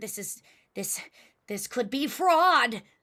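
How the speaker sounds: panting while speaking.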